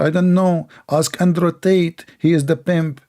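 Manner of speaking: a hint of a woman brushing off a customer; woman quoted. Woman answering a man's question about price, lightly voiced. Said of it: "She said to you".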